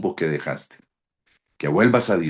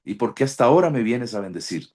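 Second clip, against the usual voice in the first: retold tearful plea; 5 semitones higher than usual. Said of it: "Y yo lloraba y le decía".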